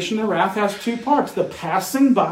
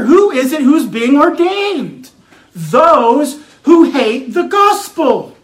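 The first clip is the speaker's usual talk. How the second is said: emphatic preaching; 5 semitones higher, 5 dB louder than usual. Acted. Preacher defending a hated doctrine, emphatic preaching. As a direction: stretch and punch the key words.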